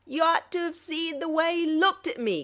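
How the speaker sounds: high, mirthful retelling of a joke; gleeful captain chortling over his jibe; gale of mirth. A narrator's reading. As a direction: crow it out, laughing at his own wit. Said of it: "concluded the raconteur in a gale of mirth".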